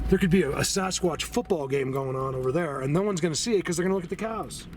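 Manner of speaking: worked-up rant rising in pitch; fired up. Real, not acted. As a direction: get carried away making the point. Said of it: "Sorry, I get fired up".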